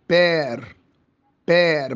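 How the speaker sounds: بير as "pèèr" with an open vowel and rolled r; French open e. Shown as a demonstration. Teacher modelling French "père", بير with open vowel. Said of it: "ما أنطقوش إي".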